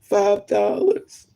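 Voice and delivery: high, drawn-out whine; mock tearful confession. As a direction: imitate a tearful addict admitting it. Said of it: "they crying".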